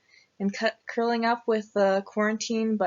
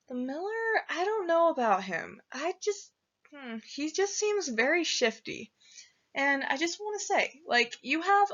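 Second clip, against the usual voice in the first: higher, hesitant voice of doubt; hesitant warning; 5 semitones higher than usual. Acted. Boy warns the bear about the miller, hesitant. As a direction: warn reluctantly, pitched up and halting.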